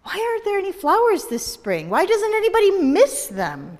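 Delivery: put-on high, urgent girl's question; Vivian pleading. Vivian asks the dandelion, high and anxious.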